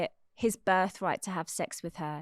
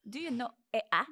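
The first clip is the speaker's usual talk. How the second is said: Swedish twang; 3 semitones higher, faster than usual. Retold or imitated. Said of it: "Swedish kind of twang".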